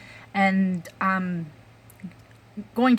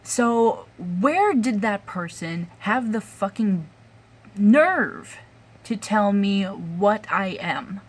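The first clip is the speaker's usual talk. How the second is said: angry; 2 semitones higher, 4 dB louder, slower than usual. Real, not acted. Angry rant about coworker.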